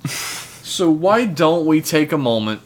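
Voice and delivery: slow grand announcer intro; big introduction. Acted. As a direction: draw it out like a host. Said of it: "when I'm doing the big introduction".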